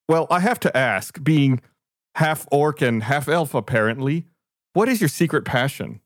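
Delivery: lightly voiced polite cart owner; a hint of a prim, curious host; Oof the curious cart owner.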